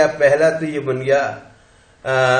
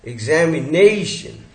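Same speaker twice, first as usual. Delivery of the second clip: एग्जामिनेशन slowly, NE stretched and stressed; stress before SHUN. Shown as a demonstration. Teacher demonstrating the rule for shun words, stressed demonstration. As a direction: put the weight on NE in एग्जामिनेशन. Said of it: "उसके पहले वाले पे stress लगाते हैं".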